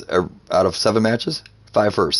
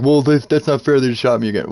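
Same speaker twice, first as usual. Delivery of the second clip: whining in a higher, louder voice; mock a sore loser who cries foul; whiny mock complaint; 5 semitones higher, 3 dB louder than usual. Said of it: "they're like".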